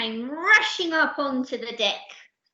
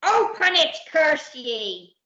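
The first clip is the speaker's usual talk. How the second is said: loud, raised pirate command; ordered; 6 semitones higher, 5 dB louder, slower than usual. Acted. Captain to timid Percy, impatient loud order. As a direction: order it sharply, falling on the curse. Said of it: "ordered the captain".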